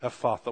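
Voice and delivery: Ephatha said eff-AH-thuh; chosen pronunciation. Shown as a demonstration. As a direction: stress the middle AH of Ephatha. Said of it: "we'll go with that one".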